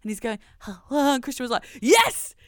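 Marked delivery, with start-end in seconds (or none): 0.6-1.1 put-on higher, louder baby hello in Yorkshire accent. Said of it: "he says it in Christian's accent". 1.8-2.3 high, loud mock football cheer; exultant shout breaking into laughter; triumphant cheer. Acting proud dad cheering hometown.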